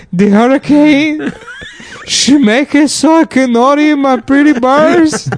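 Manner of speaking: very high, loud, laughing mock shout; shouted caricature voice. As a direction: wail about the birds like a spoiled brat. Impersonating a picky meal-eater.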